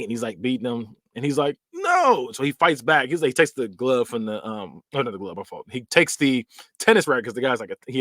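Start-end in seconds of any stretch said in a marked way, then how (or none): 1.7-2.3 high-pitched, drawn-out mock protest; high retold "no"; acted defiant no. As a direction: cry out a refusal, pitched way up. Acted defiant cry in retelling.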